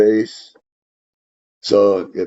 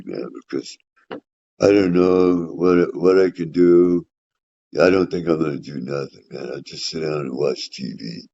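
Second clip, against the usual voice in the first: lazy couch self. Retold or imitated. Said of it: "which one of me you're gonna get".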